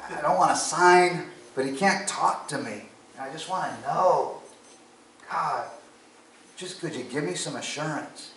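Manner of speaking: earnest retold plea, pitch lifted; pleading with God. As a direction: plead for a sign, pitch rising and falling.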